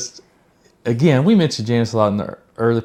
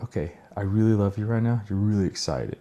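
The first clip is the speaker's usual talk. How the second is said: gentle tempering, retold; 6 dB quieter than usual. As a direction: imitate gently calming someone's excitement. Voices himself gently tempering newcomers' excitement.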